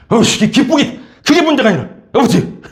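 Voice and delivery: angry elder son. Retold or imitated. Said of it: "대들면서 흥분하면서".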